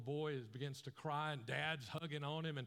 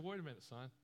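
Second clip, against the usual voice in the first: father gently questioning his son's choice; gentle dad. Retold or imitated. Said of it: "And his dad said".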